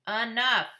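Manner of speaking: loud sharp enough; fed-up shout at a counting brother; annoyed stop. A narrator's reading. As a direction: cut him off, loud. Boy stops brother's counting.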